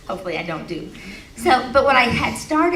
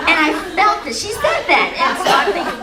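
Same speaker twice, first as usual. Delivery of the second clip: words pushed out through real laughter, pitched higher and louder; laughing through words; 9 semitones higher, 6 dB louder than usual. Real, not acted. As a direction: keep giggling as you talk.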